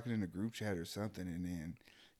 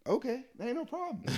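mock carefree reaction; 13 semitones higher than usual. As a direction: act delighted the work is canceled. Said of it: "I'm like".

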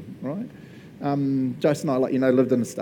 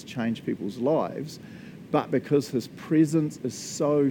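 slow devotional reading. Acted.

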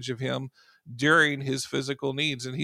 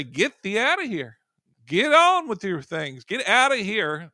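commanding rebuke; 4 semitones higher, 5 dB louder than usual. Shown as a demonstration. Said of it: "We're supposed to say".

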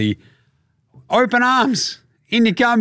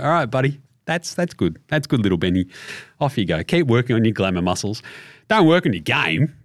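patronising; 5 semitones lower than usual. Retold or imitated. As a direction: humour him gently. Patronising Simmons.

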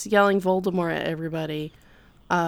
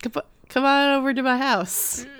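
higher-pitched put-on old-timer voice; hammed-up old rancher impression; old rancher grandpa; 6 semitones higher than usual. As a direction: coax them in like a folksy old man. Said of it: "And he's like".

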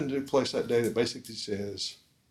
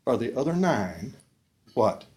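pained asking; 2 semitones higher than usual. Shown as a demonstration. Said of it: "He's basically saying".

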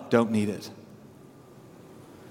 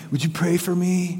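valley voice; 3 dB quieter than usual. Retold or imitated. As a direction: lightly mimic a Valley dude asking a favour. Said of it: "valley voice".

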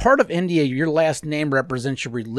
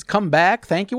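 higher-pitched mock Indian accent; gas station worker impersonation; 5 semitones higher, 4 dB louder, slower than usual. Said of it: "people that work at gas station impersonations".

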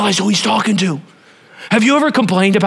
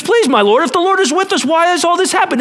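higher, whining Gideon; lightly voiced whining Gideon; whiny complaint; 10 semitones higher than usual. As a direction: complain like a jaded man. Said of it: "And he goes".

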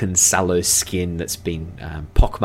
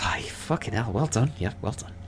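soft, grudging elf congratulations, fading away; defeated elf; 4 semitones higher, 7 dB quieter than usual. Acted. Elf handing gold to dwarf, quiet concession. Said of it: "The elf pushes over the gold and goes".

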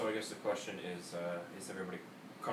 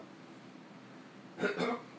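hiccup cough. Real, not acted. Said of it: "Sorry, I have the hiccups now".

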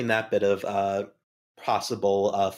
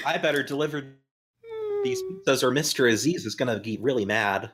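mock Italian; 3 semitones higher than usual. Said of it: "You're, like, dipping into Italian now".

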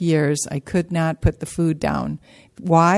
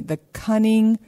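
cunning lifted higher and pushed out; stressing cunning; 4 semitones higher than usual. Real, not acted. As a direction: lean hard on cunning. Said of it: "stress that word".

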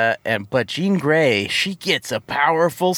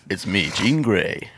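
low, lightly put-on old man's voice; a hint of old-man superhero; mock Storm voice; 7 semitones lower than usual. Co-host riffing on the cartoon impression, low mock voice. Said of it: "an old man's voice".

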